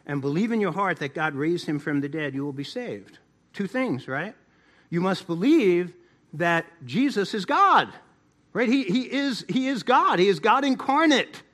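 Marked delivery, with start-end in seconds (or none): 4.9-11.4 insistent, climbing pulpit delivery; emphatic preaching. Real, not acted. Preacher insisting Jesus is God, emphatic rising delivery. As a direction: press each word home, pitch lifting toward the end.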